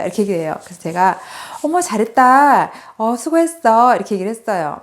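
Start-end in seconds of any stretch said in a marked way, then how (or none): 1.6-4.0 higher, drawn-out mock motherly praise; retold "well done", stretched and pitched up; positive praise. Mother praising her child's improved test score, positive praise. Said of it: "긍정적으로 얘기를 했는데".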